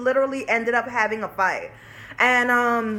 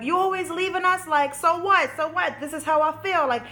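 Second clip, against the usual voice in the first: imitating her sassy younger self; sassy child; 3 semitones higher than usual. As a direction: snap back like a defiant kid. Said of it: "I was getting sassy".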